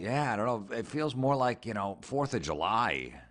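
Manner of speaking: mock a sulky Californian who misses winter; whiny Californian.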